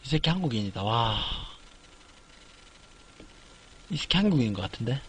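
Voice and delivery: hushed suspicion. Real, not acted. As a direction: keep it hushed so they won't hear. Suspecting opponent is Korean. (상대가 한국인인 걸 눈치채고 낮게 속삭이듯)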